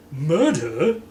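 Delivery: high shocked question; shocked gasp. Acted. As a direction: gasp at the word. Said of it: "looked faint".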